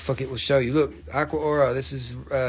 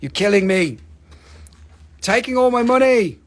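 half-hearted whine growing louder; mock exasperated viewer; 5 dB louder than usual. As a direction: start grumbling and end in a playful wail. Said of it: "be like".

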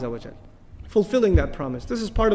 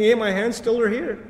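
sarcastic mockery; 4 semitones higher than usual. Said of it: "He's making sarcastic commentary about his hands".

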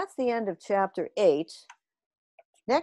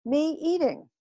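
slow, higher alien complaint; backwards alien yell; 7 semitones higher, slower than usual. A narrator's reading. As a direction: wail it slowly and backwards. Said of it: "yelled the trefinator".

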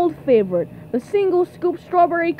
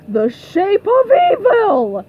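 higher, heated pep talk; riling up; 5 semitones higher, 4 dB louder than usual. Acted. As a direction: build outrage to rile up a fighter. Coach whipping up hatred of rival.

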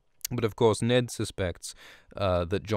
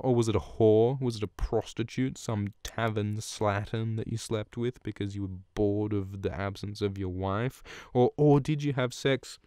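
uppity taunting. Retold or imitated. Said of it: "Cersei gets all uppity".

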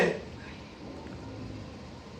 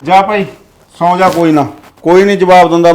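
louder, firm fed-up order; father ending the fight, raised voice; stern dismissal; 6 dB louder than usual. Acted. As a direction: send her off to bed. Father ends the quarrel.

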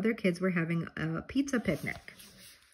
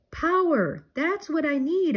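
high excited shout; 9 semitones higher than usual. A narrator's reading. Arnold craving power, shouting high. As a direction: yell it like he's found the answer. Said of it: "Arnold shouted".

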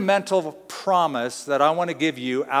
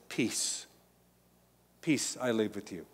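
whispered, much softer; soft, hushed peace; 5 semitones lower, 11 dB quieter than usual. Acted. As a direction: breathe the word peace gently. Jesus speaking peace softly.

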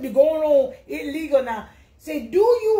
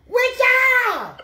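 imitating a confused shopper; 6 semitones higher, slower than usual. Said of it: "talking about".

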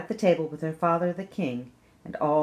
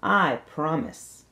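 slow promise; 3 dB louder, slower than usual. Acted. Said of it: "The princess said".

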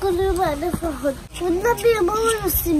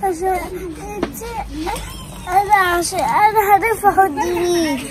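crying. Real, not acted. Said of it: "انت هتعيطي ليه؟".

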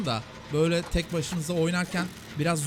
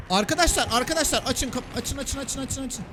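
high, rapid-fire repeated begging; frantic high call for help; urgent panicked plea; 7 semitones higher than usual. Real, not acted. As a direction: plead with teammates to open up, voice pitched high. Pleading for doors to open.

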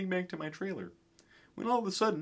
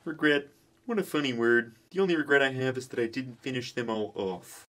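sinister; 3 semitones lower, 5 dB louder than usual. Acted. Kermit the villain in court.

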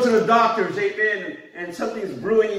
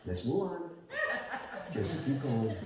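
calm low instruction; 5 semitones lower, 12 dB quieter than usual. Retold or imitated. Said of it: "And I'm telling them".

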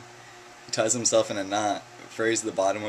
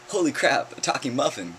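surprised; 6 semitones higher, 4 dB louder than usual. Acted. Muffin's shocked reply in joke.

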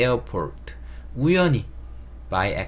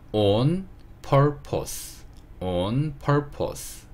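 아주 느린 시범 발음; 학생들이 따라 하도록 한 음절씩 천천히; 천천히 또박또박; 4 semitones higher, much slower than usual. Shown as a demonstration. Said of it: "이런 표현을 배워볼게요". (아주 느리게 또박또박 읽어 주는 선생님 말투)

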